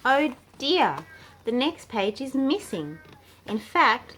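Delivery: oh dear, the pages are gone; storybook dismay at missing pages; dismayed surprise. Acted. Simon finds pages missing.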